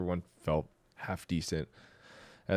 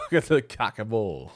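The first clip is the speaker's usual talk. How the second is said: loud, goofy ad shout for Cock and Bull; silly announcer voice; 2 semitones higher, 5 dB louder than usual. Acted. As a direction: sell "Cock and Bull" like a cheesy radio ad. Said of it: "you say that for no reason".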